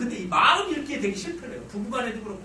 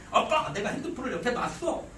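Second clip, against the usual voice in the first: lightly voiced aggrieved boy; a hint of a protesting teenager; son explaining himself. Son pouring out grievance to dad.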